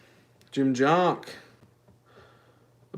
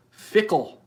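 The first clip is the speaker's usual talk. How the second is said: mock dramatic; 6 semitones higher, 3 dB louder than usual.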